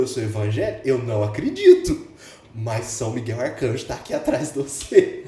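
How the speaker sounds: a hint of a mugger's hushed revelation; imitating the mugger. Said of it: "Falou desse jeito". (imitação leve do assaltante, devagar e solene)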